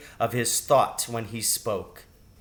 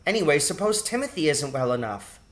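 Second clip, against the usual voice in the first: put-on higher, anxious girl voice; worried girl; 6 semitones higher than usual. A narrator's reading. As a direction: fret about the sick brother. Teresa worried.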